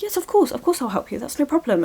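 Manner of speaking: hammed-up sweet compliance; acted people-pleasing agreement. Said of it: "and then what she says is".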